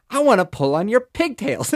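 put-on high, loud mischievous toddler. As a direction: chirp it like a naughty toddler. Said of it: "And Baby Yeti's like".

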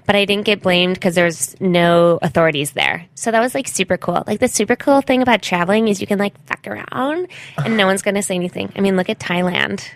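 put-on self-absorbed gap-year girl; traveling white girl. Traveling white girl describing her journaling, self-absorbed. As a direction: play an oblivious traveler sharing her journey. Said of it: "is this a traveling white girl?".

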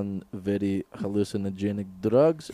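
mock Russian accent. Russian guy explaining the other man's drugs, in a Russian accent. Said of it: "the Russian accent".

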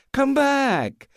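high, overbright tipsy reassurance; drunken reassurance. Acted. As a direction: wave off the frightened neighbours. Dronken Polly roept buren.

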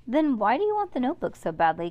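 fast, pressing demand; urgent question. Acted. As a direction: push the question hard. Cass demands answer in story.

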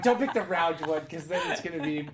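giggling through a mock inner voice; laughing mock quote. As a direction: laugh it out as a silly thought. Mocking friend's imagined thought.

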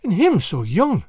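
slow exclamation of shocked pity; storybook lass exclaiming; dismayed cry. A narrator's reading. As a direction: cry out in acted dismay for the youngster. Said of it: "cries the lass".

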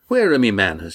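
a big man delighted to see friends; hearty fisherman. Acted. Red Ian greeting the crew, hearty and glad.

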